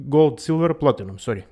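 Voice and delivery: usual speaking voice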